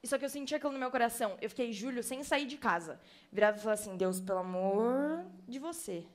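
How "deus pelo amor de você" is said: slow, laughing "pelo amor de você"; laughing plea. Retold or imitated. Retelling her prayer to God, slow and laughing. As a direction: plead slowly through a laugh.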